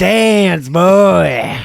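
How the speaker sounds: gunslinger dad. Acted. Dad shooting at son's feet, mock gunslinger command. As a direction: order it like a hammed-up Western bully. Gun-toting father ordering son to dance.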